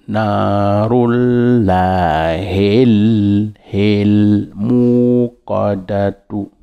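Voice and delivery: Narullahil hil stretched very slowly into muqadatu; linked liaison. Shown as a demonstration. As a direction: link the hil into muqadatu, drawn out. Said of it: "quand on fait la liaison".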